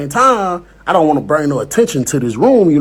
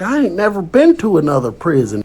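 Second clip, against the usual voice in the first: put-on country accent; 3 semitones higher than usual. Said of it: "The accent, bro, that was good".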